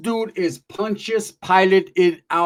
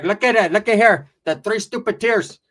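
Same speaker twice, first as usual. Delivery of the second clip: mocking aunt; 3 semitones higher, 5 dB louder than usual. Aunt mocks the tattooed youngster.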